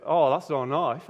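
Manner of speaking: Aussie, amused and unbothered; Australian accent. Retold or imitated. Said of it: "that's how they speak in Australia".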